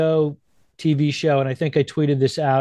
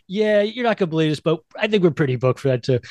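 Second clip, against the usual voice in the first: imitating Pee-wee; 3 semitones higher, faster than usual. Pee-wee making a quick excuse, fast mock voice. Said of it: "He's like".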